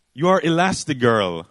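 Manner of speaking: acted forceful rebuke, punching the key words; acted scolding Edna. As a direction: scold her into action. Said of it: "slaps her on the head and says".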